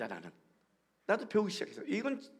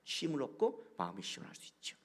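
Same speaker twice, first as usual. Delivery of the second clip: whispered aside; 3 semitones lower, 8 dB quieter than usual. Real, not acted. Drops to a whisper.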